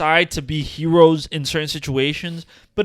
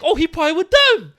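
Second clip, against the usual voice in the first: high, loud hammed-up squeal; mock accusing attackers; 9 semitones higher, 6 dB louder than usual. Imitating brawlers who spot the bystander, high loud mock yell. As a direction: cry it out high, imitating an angry crowd. Imagines rioters spotting and beating him.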